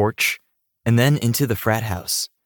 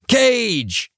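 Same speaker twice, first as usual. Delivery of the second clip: excited greeting; 14 semitones higher than usual. A narrator's reading. Drunk guy spots his friend, excited high call. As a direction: hail your buddy across the party.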